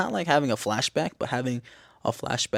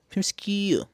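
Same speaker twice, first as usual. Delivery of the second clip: high-pitched, exaggerated SKEW; playful repeat; 9 semitones higher than usual. Shown as a demonstration. Vlogger playfully repeating a phrase, high-pitched. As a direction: lift "Skew" high and let it fall.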